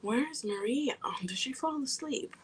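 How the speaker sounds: soft unvoiced whisper. Real, not acted. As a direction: whisper so nobody wakes. Quiet while someone may sleep.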